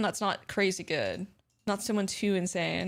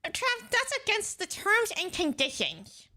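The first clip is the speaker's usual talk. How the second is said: higher, slow faux-formal warning; mock official voice; 11 semitones higher, 3 dB quieter than usual. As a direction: play the rule-quoting official.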